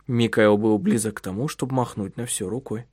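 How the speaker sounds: usual speaking voice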